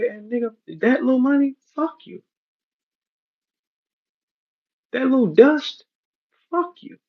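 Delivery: high mocking voice taunting him. Rapper taunting the promoter, high mocking jeer. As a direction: sneer it out high and cocky. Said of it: "I still remembered he said".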